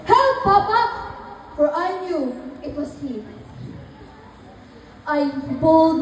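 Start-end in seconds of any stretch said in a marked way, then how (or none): 0.1-0.8 high, loud cry for help; shout for help. Acted. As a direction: scream for Papa to come. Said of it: "I shouted".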